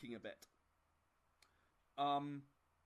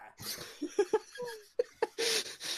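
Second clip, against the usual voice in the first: high loud burst of laughter; laughing; 6 dB louder than usual. Real, not acted. GM cracks up at the player's fumble, loud laugh.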